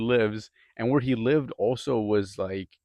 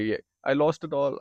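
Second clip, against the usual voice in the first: Indian accent impression; 5 semitones higher, 3 dB louder than usual. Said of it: "Sorry if my accent's bad".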